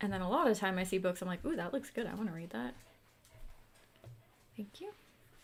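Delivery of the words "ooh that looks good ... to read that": ordinary delivery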